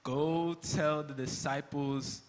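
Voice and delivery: slow, stressing Go; slow, realizing. Acted. Peter repeating the angel's words to Jesus, slowly. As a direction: linger on each word as it sinks in. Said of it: "The angel said what?".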